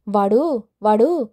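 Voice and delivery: spitting the word వాడు twice in rage; seething curse. Acted. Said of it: "మనసులోనే కసికసిగా తిట్టుకుంది". (మనసులో కసిగా తిట్టుకోవడం)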